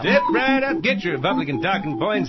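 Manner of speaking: carnival barker pitch, drawn out; snake oil seller. Acted. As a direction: hawk it like a sideshow huckster. Carnival barker pitching talking points.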